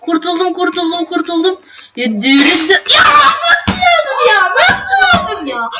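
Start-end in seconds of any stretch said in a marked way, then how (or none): 2.7-5.7 slow high wailing complaint; mock wail. Real, not acted. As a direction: wail over the loss. Just died in game.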